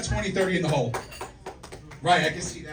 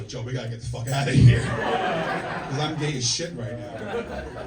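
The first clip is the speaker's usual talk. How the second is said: urgent mock yell; 7 dB louder, slower than usual. Acted panic in the waiting room.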